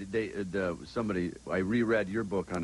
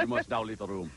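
put-on mystery guest voice; Brian Brunschweiger voice. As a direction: answer in a lightly disguised character voice. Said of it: "I do my Brian Brunschweiger voice".

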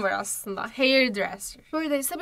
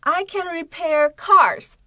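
slow example; 6 semitones higher, 7 dB louder, slower than usual. Shown as a demonstration. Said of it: "example sentence read slowly".

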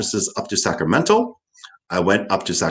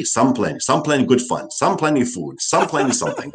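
Kauai pidgin; 3 semitones higher than usual. Retold or imitated. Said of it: "but Kauai".

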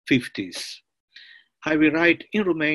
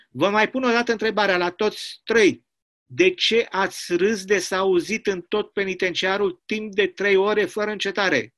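stern, somewhat raised commandant threatening isolation; menacing commandant; 5 semitones higher, faster than usual. Acted. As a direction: bark out the threat like a harsh warden.

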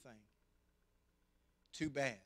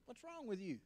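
gentle dad; 8 semitones higher, 8 dB quieter than usual. Retold or imitated. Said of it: "started to cry".

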